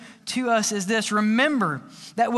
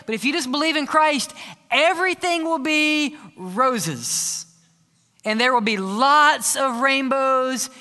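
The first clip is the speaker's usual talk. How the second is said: over-sweet mock promise, slowing on the roses; hammed-up sugary reassurance; mock cheery preacher. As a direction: parody a glib church answer. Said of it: "we don't say it in that language".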